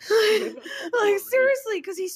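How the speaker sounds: high words broken by laughter; laughing. Real, not acted. Telling about scared Maurice, laughing through the words. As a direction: giggle through it.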